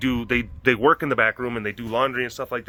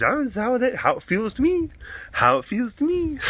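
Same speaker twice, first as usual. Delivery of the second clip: voicing the dog; 9 semitones higher than usual. Dog sulking, voiced.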